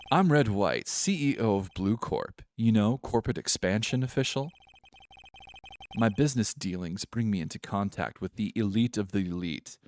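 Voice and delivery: lightly posh British self-importance; a touch of amateur posh British pomp. Acted. CEO introducing himself to a lawyer, posh British. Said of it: "I think this is the voice".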